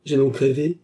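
understated dread, rising in pitch and volume; accent of terror. A narrator's reading. Patient doubting her own sanity, mildly terrified. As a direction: let horror creep into the realisation. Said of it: "avec un indicible accent de terreur".

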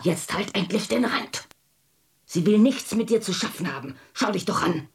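mother losing her temper with her daughter; snapping at the child to shut up; angry. Acted. Drunk mother snaps at daughter.

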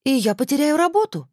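high, hammed-up tragic cry. A narrator's reading. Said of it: "трагически вскрикнула". (наигранно трагический вскрик, высоко)

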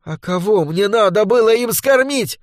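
high, sharp retort; flaring up. A narrator's reading. Mother flaring back at accusing son, high and sharp. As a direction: snap back in sudden anger. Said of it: "вспыхнула Ольга".

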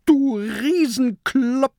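high-pitched angry yell; furious shout. A narrator's reading. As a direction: shout it in a small pirate's outrage. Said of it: "schreit der kleine Pirat wütend".

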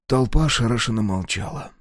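plain reading voice

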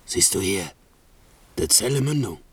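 hushed, pleading whisper; urgent whisper. Acted. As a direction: hush him before the cell. Caliban hushing at the cell.

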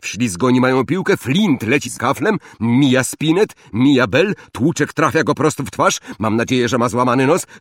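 loud, quick sports commentator calling the play; excited match commentary. Acted. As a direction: call the match like a biased announcer. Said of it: "Lee wciąż komentował".

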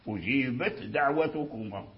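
أجيبت with its ت clearly voiceless and separate before دعوتكما; clear ta before dal. Shown as a demonstration. Teacher showing students the clear ta in أجيبت before دعوتكما. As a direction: sound the ت in أجيبت crisply, then a light د. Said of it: "اللسان ارتعد ارتعادتين".

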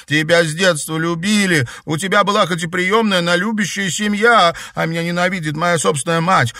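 high, loud, weeping outpouring; girl sobbing over her dead brother; sobbing lament. A narrator's reading. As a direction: pour it out through sobs. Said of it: "Она заплакала навзрыд".

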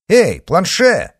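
high, loud, drawn-out hail; calling out. A narrator's reading. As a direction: hail someone from a carriage window. Calling out from the carriage.

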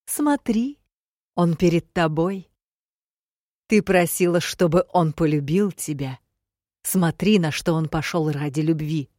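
loud, insistent villain's urging; goading taunt. Acted. Demiurge makes the girl watch her lover, loudly goading. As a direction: press the point home forcefully.

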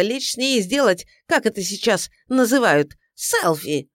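high, loud furious insults; furious tirade. A narrator's reading. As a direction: scream Идиот at the fool. Client insults detective. (яростная брань, громко и высоко)

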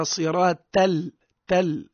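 "صراط تل" with a light, non-emphatic T; mistaken thin T. Shown as a demonstration. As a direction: say "تل" as a thin "tal" instead of heavy "ṭal". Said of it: "يقرأ صراط تل".

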